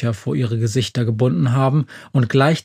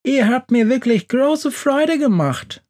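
much higher, moved and tender; touched; 11 semitones higher than usual. A narrator's reading. Yahoo thanks the friends for the shoes, touched and tender. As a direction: thank them with a full heart. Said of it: "sagt er gerührt".

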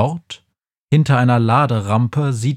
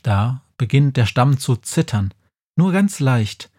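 ordinary delivery

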